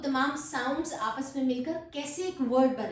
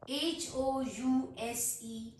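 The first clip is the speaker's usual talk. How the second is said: slow letter-by-letter spelling; much slower than usual. Shown as a demonstration. Teacher spelling a word for learners, slow spelling. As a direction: spell it out, a small gap after each letter. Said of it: "letter spell करती हूँ".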